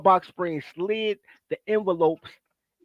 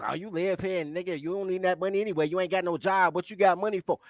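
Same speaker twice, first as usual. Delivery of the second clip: mocking his mother; 6 dB quieter than usual. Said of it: "she playing games".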